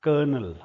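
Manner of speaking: कर्नल said firmly as "kernel"; correct pronunciation. Shown as a demonstration. Teacher giving students the right word, firm and clear. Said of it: "परंतु इसको बोला जाता है".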